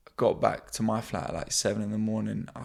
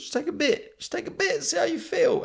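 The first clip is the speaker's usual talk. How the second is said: mock preachy advice. Shown as a demonstration. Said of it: "my theory with all these".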